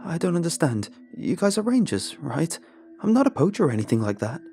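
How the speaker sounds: high, loud anxious protest; alarmed. A narrator's reading. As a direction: panicky innocence, speeding up at the end. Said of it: "he says in alarm".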